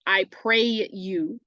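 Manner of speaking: "I pray you" read slowly with "pray" stressed; scanning the meter. Shown as a demonstration. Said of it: "I pray" would be one".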